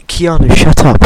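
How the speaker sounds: loud "shut up"; shouting. Real, not acted. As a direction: yell him down. Shouting friend down.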